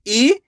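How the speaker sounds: ई drawn out; long ee. Shown as a demonstration. Teacher modelling the long vowel, drawn out. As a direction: lengthen ई for the class. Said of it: "खींच के पढ़ेंगे".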